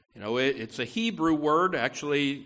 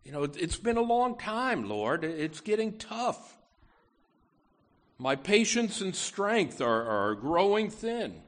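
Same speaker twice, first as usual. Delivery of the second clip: weary prayer; 4 semitones higher than usual. Retold or imitated. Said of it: "maybe you've prayed a prayer like that".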